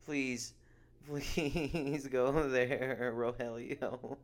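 over-the-top promoter plea; mock begging. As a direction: beg the crowd to come, hammed-up. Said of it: "I'm trying my best to promote it".

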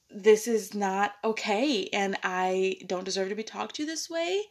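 measured, firm boundary-setting; retold stern firmness. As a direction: lay down the line to the boss, understated. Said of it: "I was so stern and so specific with him".

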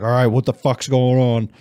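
voicing a startled dog. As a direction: play the dog suddenly perking up. Voices startled dog in retold video.

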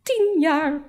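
high, wounded voice of a woman welling up; tearful indignation, acted; near tears. A narrator's reading. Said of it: "In mijn moeders ogen welden de tranen".

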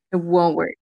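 laughing repeat of "It won't work". Real, not acted.

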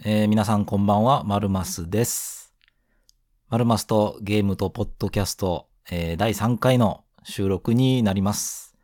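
blocked nose from hay fever; nasal voice. Real, not acted. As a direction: speak with a stuffy nose. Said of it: "鼻声で".

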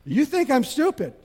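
a touch of indignation; mock offended wife. Repeating wife's retort.

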